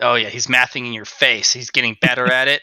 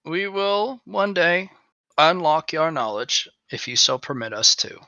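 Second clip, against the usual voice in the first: solemn leader; 4 semitones higher than usual. Acted. In-character solemn promise.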